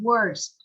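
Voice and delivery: "Worst" with the tongue curled up on the vowel. Shown as a demonstration. Teacher showing students the sound, "Worst" with curled tongue. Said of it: "bạn đọc cong lưỡi lên".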